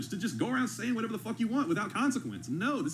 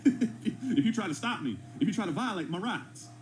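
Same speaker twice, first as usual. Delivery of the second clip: laughing mockery; slower than usual. Reactor mocks the clip's threat.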